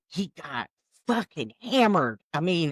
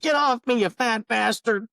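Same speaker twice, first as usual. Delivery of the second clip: hammed-up angry wife; 6 semitones higher than usual. Re-acting wife's insult louder.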